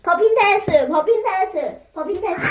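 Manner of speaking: loud repeated barked orders; drill sergeant. Acted. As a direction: bark it like a coach.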